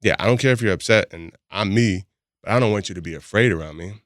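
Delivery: easing down into sincerity; retold conceding reply. Man answering partner who said she's afraid, reassuring. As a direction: settle from firm to reassuring. Softened reply after she admits fear.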